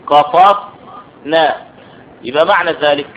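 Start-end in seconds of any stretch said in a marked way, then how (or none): 0.1-1.5 استنشقنا spelled out very slowly, the قاف held silent before نا; drawn out so each syllable of استنشقنا is heard; slow syllable demo. Shown as a demonstration. Teacher showing students the silent letter, very slow. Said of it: "القاف ساكنة".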